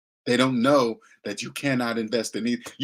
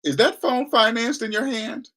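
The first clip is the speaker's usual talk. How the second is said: pointed challenge; 9 semitones higher than usual. Pretend. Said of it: "you turn to 'em and say".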